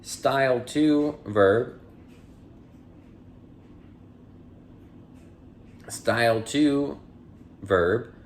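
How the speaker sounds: measured, clear dictionary-entry read. Acted. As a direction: announce each headword, then read its definition evenly. Reads dictionary entries aloud.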